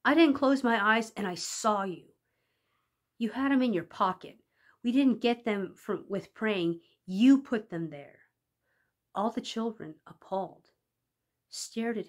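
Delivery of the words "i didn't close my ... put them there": louder, insistent accusation; accusing boy. Acted. Johnny telling the teacher she put them there, loud insistent. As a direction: press the accusation home.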